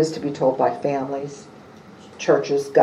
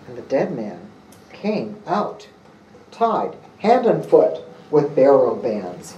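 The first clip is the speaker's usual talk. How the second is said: measured, solemn gospel reading; scripture reading. Acted. Pastor reads the Lazarus gospel to the congregation, solemn and measured. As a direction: read the passage aloud to the congregation.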